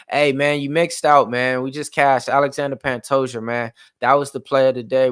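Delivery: loud cheering about the win; excited. Real, not acted. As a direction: celebrate the cashed bet. Celebrating cashed bet.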